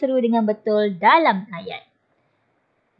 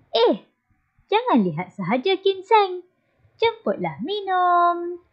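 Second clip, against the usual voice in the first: high hostess voice; 8 semitones higher than usual. Acted. Mother urging Ginseng to drink up. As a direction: coax the guest kindly.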